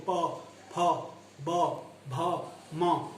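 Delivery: प फ ब भ म, lips meeting on each; lip sounds. Shown as a demonstration. Teacher demonstrating lip sounds to students, clearly articulated. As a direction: press the lips together for प फ ब भ म. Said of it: "जैसे आप प बोल के देखिए".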